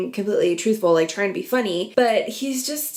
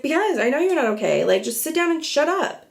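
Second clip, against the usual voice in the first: higher, quick retold put-down; mock exasperated comeback; 6 semitones higher than usual. Allie shutting down dramatic James, mock exasperated. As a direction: imitate someone fed up, pitch climbing to the end.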